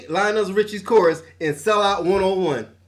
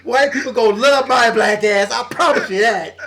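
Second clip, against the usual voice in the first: laughing mock boast; 2 semitones higher than usual. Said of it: "He's like".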